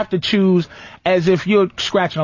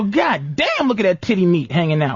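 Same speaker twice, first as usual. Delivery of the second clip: fast, crude leering guy; a lightly voiced crude guy hitting on her; crude pickup line. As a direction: leer at her like a crass player. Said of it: "niggas don't come up to you and go".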